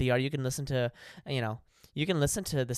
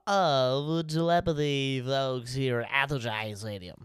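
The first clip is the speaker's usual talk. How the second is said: stadium announcer; slower than usual. Pretend. Mock stadium announcer intro.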